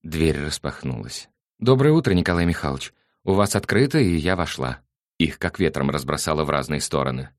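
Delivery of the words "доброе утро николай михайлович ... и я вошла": bright intruder. Acted. Irina bursts in on them.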